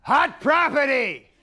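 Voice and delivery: slow, high, loud showbiz announcer; hammed-up game show announcer crying out the name; Ed McMahon announcer call. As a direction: stretch it out like a TV host introducing an act. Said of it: "he always has this, like".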